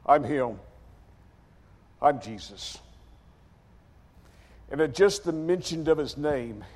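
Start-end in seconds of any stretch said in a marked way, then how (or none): 0.1-2.8 low, unhurried answer; calm declaration. Retold or imitated. Jesus identifying himself to the crowd, calm. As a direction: state it simply, voice settling down.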